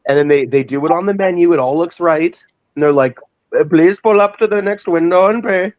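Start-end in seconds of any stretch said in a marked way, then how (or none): 3.6-5.7 high-pitched drive-thru cashier voice; fast food cashier. Retold or imitated. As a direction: read the line into the headset, pitched up. Cashier voice in retold scene.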